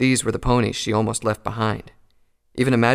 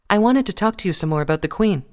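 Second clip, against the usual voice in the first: higher, caring check-in; concerned Twilight; 10 semitones higher, 4 dB louder than usual. Acted. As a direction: ask gently how she is. Twilight voiced.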